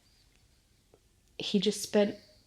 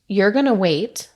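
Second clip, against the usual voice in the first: firm protective dad; 3 semitones higher, 5 dB louder than usual. Retold or imitated. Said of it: "like, talking to the nurse".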